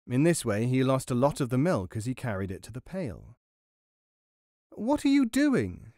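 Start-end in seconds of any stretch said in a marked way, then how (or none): 4.7-5.9 high, drawn-out mock shout; mouse shouting. A narrator's reading. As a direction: call out slowly in a high mouse voice. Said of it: "shouted Guru".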